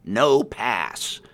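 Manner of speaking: giant's loud blunt shout. A narrator's reading. Giant guard shouting at travellers, loud bellow. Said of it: "while shouting".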